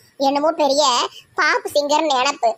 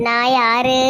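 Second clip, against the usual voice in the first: drawn-out eerie question to scare her; a mock haunting, low and slow; spooky ghost voice; 3 semitones lower, slower than usual. Daughter-in-law pretending to be a ghost to scare her mother-in-law, eerie. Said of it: "பயம் காட்டுறேன்".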